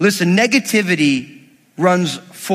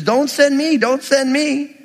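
higher-pitched mock pleading; acted excuses; 5 semitones higher than usual. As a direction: beg off, lightly hammed-up. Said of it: "all these questions and excuses".

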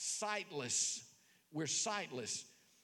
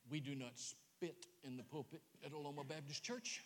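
offended church lady; 5 semitones lower, 9 dB quieter than usual. Retold or imitated. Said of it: "Lady back there went".

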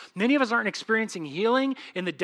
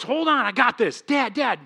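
advocating Jesus; 4 semitones higher, 5 dB louder than usual. Acted. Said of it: "he's your advocate".

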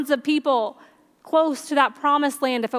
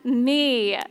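pleading to the Lord; slower than usual. Retold or imitated. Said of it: "people who are like".

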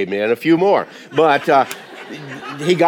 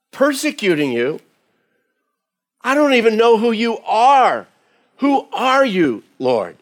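much higher, slowing down, bewildered; asking in confusion who is speaking; bewildered question; 9 semitones higher than usual. Retold or imitated. Saul bewildered on the ground.

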